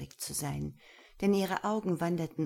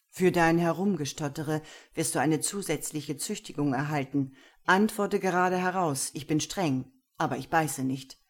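louder, irritated stern voice; annoyed master; 5 dB louder than usual. Acted. Gero scolds Lena, annoyed. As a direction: scold her stuttering. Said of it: "verärgert".

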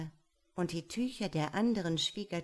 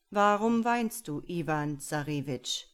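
the father asking; 6 dB louder than usual. Acted. Father asks weeping son.

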